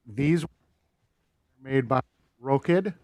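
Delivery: choppy dropping audio; bad connection, words dropping out; audio cutting out. Real, not acted. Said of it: "your audio is cutting out a little bit".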